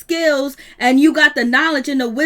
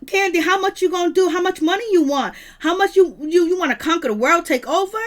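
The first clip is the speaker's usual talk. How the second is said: higher, incredulous quoted questions; mock grilling, voice pitched up; imitating Kenya Moore; 5 semitones higher than usual. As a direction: press her with disbelieving questions. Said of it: "Kenya Moore is like".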